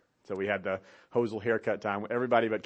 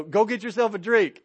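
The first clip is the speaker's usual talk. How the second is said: distant dad advice; 8 semitones higher, 7 dB louder than usual. Retold or imitated. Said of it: "You're, uh, you know".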